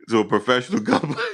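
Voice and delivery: fast, laughing through it; cracking up mid-line. Real, not acted.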